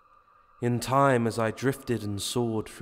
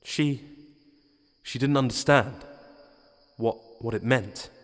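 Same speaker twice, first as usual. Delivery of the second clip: shaking voice. Acted. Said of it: "I say, shaking".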